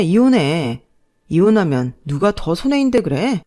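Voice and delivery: brazen sneer. Acted. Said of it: "배짱으로 나가더라고요".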